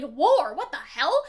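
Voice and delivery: alarmed war, what the hell; a touch of horrified realization; mock dismay. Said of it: "It's like, like".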